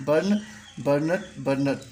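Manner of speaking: slow pronunciation demo. Shown as a demonstration. Teacher drilling students on verb forms, slow and careful. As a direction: slowly give बर्न, बर्नट one form at a time. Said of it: "मैं इसको pronunciation करते जाऊंगा".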